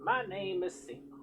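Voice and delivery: a hint of a kindly village healer warning the hero; healer woman's voice. Healer woman continues speaking.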